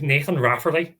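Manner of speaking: name said in a Northern Irish accent; light Northern Irish lilt. Shown as a demonstration. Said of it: "can only say it in Northern Irish".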